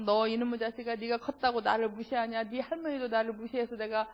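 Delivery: run-on nagging of a mother, lightly acted; mock scolding, one long stream of complaint. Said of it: "막 얘한테 야단을 치게". (야단치는 엄마 흉내)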